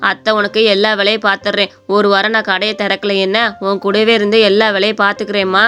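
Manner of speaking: mother-in-law comforts her daughter-in-law, gently; kind old mother-in-law. Acted. (அன்பான வயதான மாமியார் குரல்)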